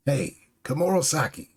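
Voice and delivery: high, exasperated acted scolding; visibly upset. Orochi objects to music during battle, upset protest. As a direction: snap at the player in annoyance. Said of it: "visibly upset, is like".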